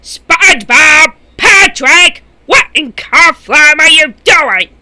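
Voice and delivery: yelling in irritation; annoyed shout. Acted. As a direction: call out sharply and angrily. Neighbor yelling at noisy pair.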